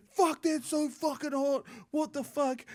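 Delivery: high, slow, pained mock complaint; imitating the burning flatmate. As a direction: play the flatmate gasping at the heat. Flatmate yelling about the heat.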